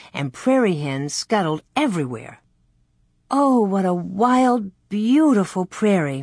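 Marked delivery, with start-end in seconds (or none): 3.3-6.2 happy sigh. A narrator's reading. Mary admires the wild prairie, sighing with happiness. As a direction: sigh it out with wonder. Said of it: "Mary sighed with happiness".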